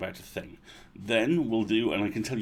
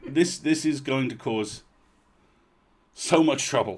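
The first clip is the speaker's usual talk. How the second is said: chuckling out the words; laughing; 2 semitones higher, 4 dB louder than usual. Real, not acted. Host laughs about the trouble the button will cause.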